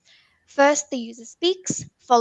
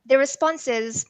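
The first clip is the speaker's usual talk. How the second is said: pirate voice; 3 semitones higher, slower than usual. Pretend. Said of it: "excuse my pirate, um, voice".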